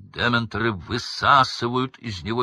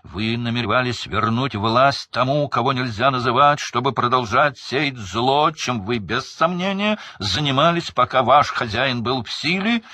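loud, higher, forced accusation; straining voice; 6 semitones higher, 6 dB louder than usual. A narrator's reading. Crouch straining his voice to reach the jury. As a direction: push the voice to breaking. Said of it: "надрывал голос мистер Крауч".

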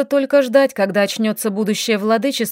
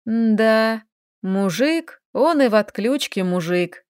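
thoughtful; slower than usual. Acted. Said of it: "Голос девушки звучал задумчиво".

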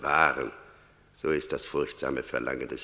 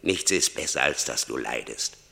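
stern rebuke; 5 dB louder than usual. Acted. Death berates Franz.

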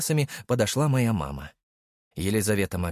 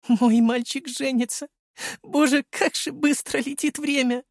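put-on a mother overcome, clutching her children; tearful mother. Mother hugs son and bride, in a high tearful voice.

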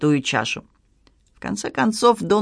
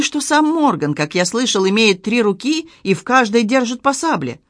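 lightly voiced townsman, agitated gossip; mildly hammed-up gasps of dismay; alarmed gossiping townsman; 3 semitones higher than usual. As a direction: trade frightful rumours with a touch of horror.

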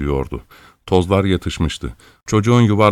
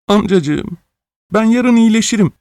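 put-on much higher, weepy child's plea; tearful pleading; 13 semitones higher, 3 dB louder than usual. A narrator's reading. Orphan begging master in tears, high weepy plea. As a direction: beg him not to throw you out. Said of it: "gözyaşları içinde yalvardı".

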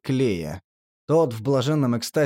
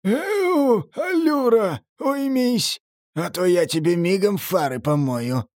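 threatening shout; 7 semitones higher, slower than usual. Acted. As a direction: bark a threat across. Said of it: "подал голос клеткоголовый".

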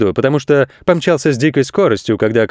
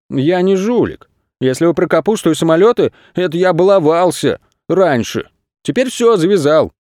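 higher, earnest reformed goat; goat protesting; 5 semitones higher than usual. Acted. Goat telling crooks he quit mischief, higher voice. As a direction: insist you've gone straight. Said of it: "он сказал".

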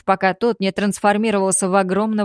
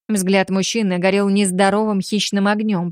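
usual speaking voice

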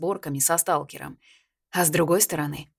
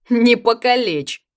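slow, raised, half-joking warning; teasing advice; 7 semitones higher, 8 dB louder, slower than usual. A narrator's reading. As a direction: drawl a mock caution. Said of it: "посоветовал Яр".

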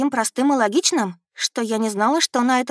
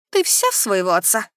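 ordinary delivery

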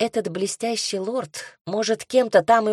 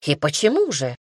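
a hint of arrogant lord asking; cool, lordly challenge; haughty; 3 semitones lower than usual. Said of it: "Голос Майрона звучал высокомерно". (слегка высокомерно)

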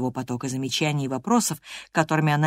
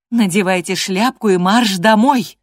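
louder, cutting command; curt order; 4 semitones higher, 7 dB louder than usual. Acted. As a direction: snap the order off short. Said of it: "отрезала я".

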